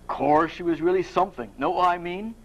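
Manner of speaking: lightly voiced Cockney bloke; confiding, amateur Cockney; a hint of Cockney; Perseus. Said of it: "like to do a Cockney accent".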